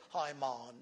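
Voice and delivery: West Indian "Hi, man" with a long, open "maan"; light West Indian lilt on "Hi, man"; West Indian accent. Shown as a demonstration. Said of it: "So they say".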